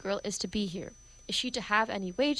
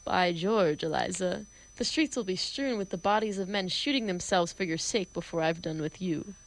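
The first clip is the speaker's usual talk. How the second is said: thrilling low tones. Acted. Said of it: "most thrillingly beautiful low tones".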